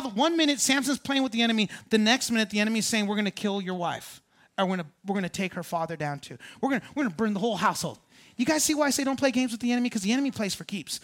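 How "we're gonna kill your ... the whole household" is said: low quick threat. Acted. Enemy's threat voiced low, fast.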